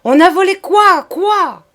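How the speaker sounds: high, loud furious demand; yelling. A narrator's reading. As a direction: howl the question. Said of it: "monsieur continuait de hurler".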